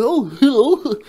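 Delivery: lightly voiced friendly bear; soft, high voice of a big friendly bear. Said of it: "That big boogaloo".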